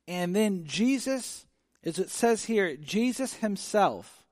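slow, weighty "Jesus himself"; stress on Jesus himself. Shown as a demonstration. Preacher to congregation, slowly stressing "Jesus himself". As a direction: lean hard on "Jesus himself", drawn out slowly. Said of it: "when it says Jesus himself, it's like heightening it".

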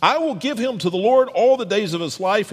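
lightly voiced desperate woman praying; pleading prayer. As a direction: beg the Lord for a son. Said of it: "she pleaded".

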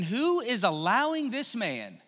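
mildly indignant questioning; a touch of exasperated disbelief; upset. Acted. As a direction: voice an upset challenge, lightly acted. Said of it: "David is all upset".

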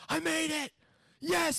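high, triumphant victory cry; Rocky moment. Retold or imitated. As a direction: cheer like a kid who just won. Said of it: "he had this rocky moment".

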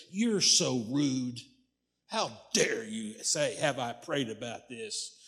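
slow, measured mock outrage; imitated indignation. Offended church member scolding her pastor, imitated indignation. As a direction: retell her offence, drawing out each word. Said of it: "she got angry. She got mad".

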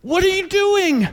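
put-on high, slow, dismayed kid voice; stunned little boy. Four-year-old finding his garage wrecked, high and dismayed. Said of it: "finally he said".

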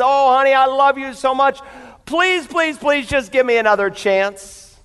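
a touch of tearful begging; tearful pleading. Acted. Wife begs husband for another chance, tearful plea.

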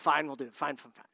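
soft, grudging give-in; reluctant muttered fine. Retold or imitated. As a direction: sigh out the yes like you've lost. Men giving in reluctantly.

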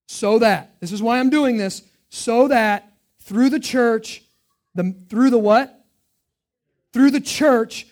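loud, high, emphatic reading of the verse; loud scripture reading. Real, not acted. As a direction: proclaim each phrase to the congregation. Preacher reading scripture forcefully.

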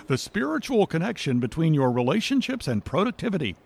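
brisk radio announcer read. Shown as a demonstration. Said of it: "the radio voice?".

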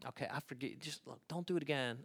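soft, subdued acted concession; reluctant forgiveness. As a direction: grant it quietly, with a small caution.

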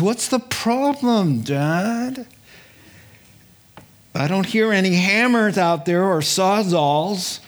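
put-on demanding young king voice. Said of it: "and he says".

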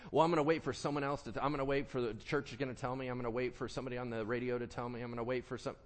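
fast run-on excuses; hurried, repetitive list of excuses; rattled-off excuses. Acted. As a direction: rattle through the excuses without a breath. Acting out excuses for waiting.

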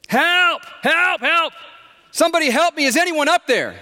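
high, loud, desperate cry; yelling for help. A narrator's reading. Stranded climber yells to anyone passing by, high desperate yell. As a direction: call up the cliff at full stretch. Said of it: "Doug began yelling for help".

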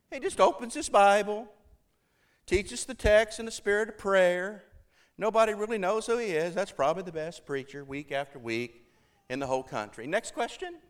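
high-voiced elderly preacher, haltingly paced; Fred Craddock. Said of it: "this is how he talks".

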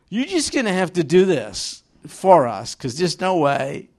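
apostles griping, rising to a loud plea; mock whiny complaint. Apostles begging the Lord, mock whiny plea. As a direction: whine it like reluctant disciples begging.

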